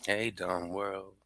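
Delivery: slow, drawn-out Hey, dumb world; slow catchphrase. Shown as a demonstration. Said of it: "That's why I say".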